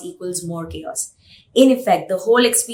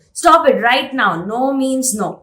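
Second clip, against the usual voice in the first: sharp mock yell, higher and louder; parent yelling; 4 semitones higher, 4 dB louder than usual. Fed-up parent yelling at a tantruming toddler, mock yell. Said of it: "You might yell".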